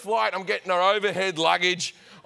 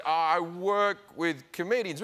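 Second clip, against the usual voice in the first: cagey answer; slower than usual. Retold or imitated. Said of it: "which is factually correct".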